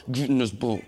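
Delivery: stern grandma ordering them into the boat, slowing and pressing on the end; a firm Big Mama putting her foot down; mock grandma command, every get hit hard; Big Mama scolding. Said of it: "he went Big Mama on".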